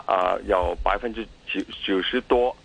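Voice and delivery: Mandarin with a heavy Cantonese accent. Real, not acted. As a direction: Cantonese speaker talking Mandarin. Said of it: "我的廣-，普通話唔好".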